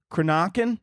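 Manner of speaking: "Cranachan" with a broad AH, kruh-NAH-kun; questioning "Cranachan" as kruh-NAH-kun; unsure pronunciation. Real, not acted. Host guessing at a dessert name, unsure "Cranachan" as kruh-NAH-kun. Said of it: "I don't even know how to say".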